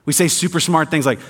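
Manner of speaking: dry sarcastic tone. Real, not acted. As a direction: lay the sarcasm on lightly. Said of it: "note the sarcasm in my voice".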